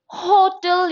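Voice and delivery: "hotel" said as "otel", no H; wrongly silent H. Shown as a demonstration. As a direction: drop the H from "hotel". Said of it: "you cannot say".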